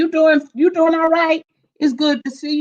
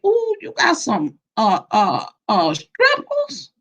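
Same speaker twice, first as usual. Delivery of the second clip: mock surprise; 3 semitones lower, slower than usual. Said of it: "I say".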